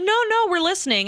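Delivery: lightly acted 'go on' encouragement; reassuring game master. Game master urging a player on, reassuring.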